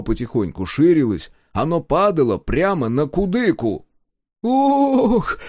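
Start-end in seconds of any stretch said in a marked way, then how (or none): 4.4-5.4 a high gasped "Ох!" in terror; frightened gasp. A narrator's reading. Woodcarver gasping at the falling sun, frightened gasp. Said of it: "выдохнул в ужасе древорез".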